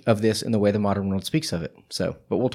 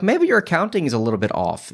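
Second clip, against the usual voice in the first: high, sly mock threat; smiling menacing loan shark; 5 semitones higher than usual. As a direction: lean in with a smirking threat.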